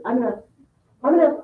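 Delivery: offhand mock of someone slurring "I'm gonna"; lazy casual speaker. Teacher imitating a student's lazy speech. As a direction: toss it off like a kid heading to Whitey's. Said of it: "sometimes people".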